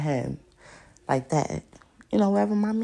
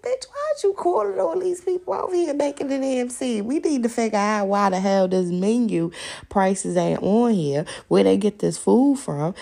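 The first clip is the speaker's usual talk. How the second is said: mock rant; 3 semitones higher, 5 dB louder than usual. Her rant at the restaurant.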